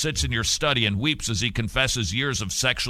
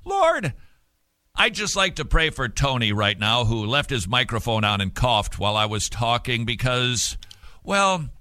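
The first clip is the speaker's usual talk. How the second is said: preachy prayer voice. Retold or imitated. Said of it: "Have you ever heard that prayer?".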